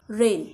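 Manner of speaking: रेन with AI sounded as one long "e" vowel. Shown as a demonstration. Teacher showing learners the AI sound, रेन with an "e" vowel. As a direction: say रेन clearly, vowel like English "ay". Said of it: "ए आयचा ए असा उच्चार होतो".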